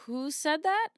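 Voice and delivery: high layered demon voice; demonic layered voice. Acted. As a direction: ask it like a possessed demon. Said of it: "If it weren't for the demon voice".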